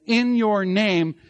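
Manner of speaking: slow, weighted "in your name"; emphasis on "in your name". Shown as a demonstration. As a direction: stretch out each word of "in your name" for emphasis. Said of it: "there is emphasis in that statement".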